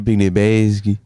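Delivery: "basket" with its end softened to "bas-kee"; odd pronunciation. Pretend. Podcaster repeating it for his teasing co-host, odd pronunciation. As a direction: swallow the T in "basket", like "napkin". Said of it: "Why'd you say it like napkin?".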